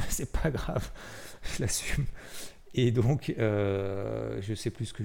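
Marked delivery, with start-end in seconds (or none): 0.1-2.0 laughing. Real, not acted. Laughing at own contrarian stance.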